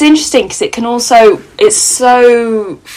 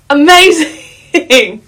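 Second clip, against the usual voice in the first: drawn-out amazing; 6 semitones higher, much slower than usual. Real, not acted. Drawn-out delighted exclamation.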